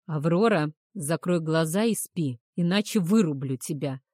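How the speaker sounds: громкий строгий приказ; приказать твёрдо; строго. Acted. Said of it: "строго приказал Эйнар". (строгим тоном)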